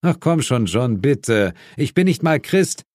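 a partner begging to be let off, half-joking; pleading Suko. Acted.

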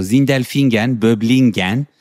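Sindelfingen and Böblingen with Turkish-German stress. Retold or imitated. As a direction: town names stressed at the end. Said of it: "kommt dann halt so".

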